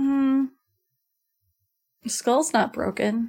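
very quiet, soft, hushed murmur under the breath. Voicing a hurt character checking his skull by hand: very quiet voice. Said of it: "very quietly".

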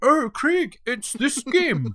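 very high-pitched, slow, swooping put-on Swedish lilt. Quoting what he said about a game: swedish accent. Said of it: "that's a great Swedish".

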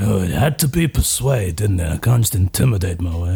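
deep grumbling under breath. Voicing a character heading over to persuade a fight to stop: muttering to oneself. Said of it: "muttering to myself".

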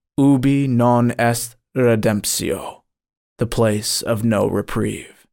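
usual speaking voice

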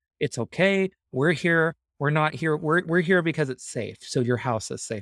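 mock comforting, reassuring, compassionate tone. Recalling reassuring people worried about their house, retelling a reassuring tone. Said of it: "I'm like actually reassuring".

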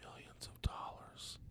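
whispered, very quiet. Recalling asking Ted DiBiase what his surgery cost, imitating his whispered answer. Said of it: "he whispered it".

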